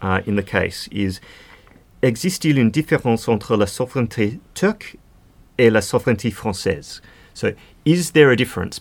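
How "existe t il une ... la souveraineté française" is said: self-mocking attempt at a French accent, quoting the advocate; bad French accent. Podcaster quotes the Turkish advocate's line in French, bad French accent. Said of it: "in my very bad French accent".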